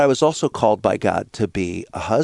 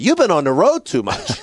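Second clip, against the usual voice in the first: teasing wife; 5 semitones higher than usual. Retold or imitated. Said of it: "My wife says at that point".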